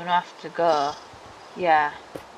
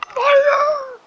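high, loud shout of fire; louder, high shouted Fire; 8 dB louder than usual. Shown as a demonstration. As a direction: yell it out as loud as you can. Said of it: "say it louder".

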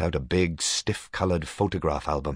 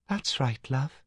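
high, very slow, airy ghost voice; dreamy young Katinka; clear new voice; 8 semitones higher, slower than usual. A narrator's reading. Dead sister Katinka describes her hat, clear and high. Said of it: "the voice said".

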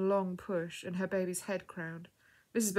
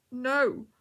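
higher, louder distressed cry; weeping; 5 semitones higher, 7 dB louder than usual. A narrator's reading. Girl in labour answering a stranger, tearful cry. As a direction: wail it in distress. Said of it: "wept the young lady".

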